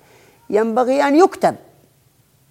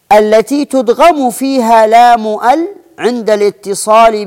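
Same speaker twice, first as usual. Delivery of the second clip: reading the shaykh's definition; 3 dB louder than usual. Retold or imitated. Teacher quoting the shaykh's rule, formal recitation. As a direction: read the definition out, a bit louder. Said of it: "قال الشيخ".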